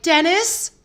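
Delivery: high, loud questioning call; hopeful high call across the street. Retold or imitated. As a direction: call his name up high to catch him. Calling out to a stranger.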